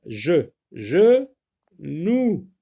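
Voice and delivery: "je, je, nous" said syllable by syllable; syllables separated. Shown as a demonstration. Teacher showing where the word divides, syllables separated. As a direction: break "je" from "nous" with a pause. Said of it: "on sépare le mot ici".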